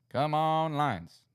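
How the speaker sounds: really rooting now, voice up high; begging the Lions to come through. Real, not acted. Cheering on his team.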